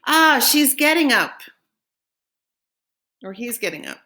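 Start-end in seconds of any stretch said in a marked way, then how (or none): 0.1-1.4 surprised. Real, not acted. Spotting the next picture.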